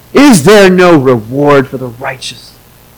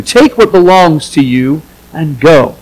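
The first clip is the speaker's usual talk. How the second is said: gentle invitation. Shown as a demonstration. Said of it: "Think of it this way".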